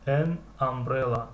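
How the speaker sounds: slow, careful answer; slow model word. Shown as a demonstration. Teacher models the word slowly for students. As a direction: stretch it for learners. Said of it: "teacher models word".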